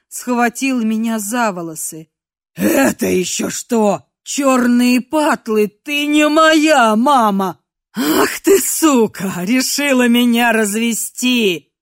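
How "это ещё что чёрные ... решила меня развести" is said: furious shout. Acted. Captor realizing he was tricked, furious. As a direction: roar at the impostor.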